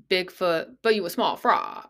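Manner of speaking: lightly mimicking an odd rap delivery; bizarre rapper voice. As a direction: imitate her weird delivery. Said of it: "that's how she says it. Her voice".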